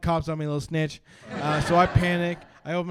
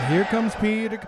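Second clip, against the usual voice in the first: shouted song line; 6 semitones higher, 4 dB louder than usual. Acted. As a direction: belt it out higher and louder.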